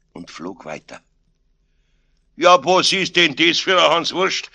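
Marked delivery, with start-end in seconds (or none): 2.4-4.5 loud, high, scornful Bavarian outburst; indignant call. A narrator's reading. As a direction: shout in disbelief at the fool. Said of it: "rief Aloysius". (empörtes Rufen)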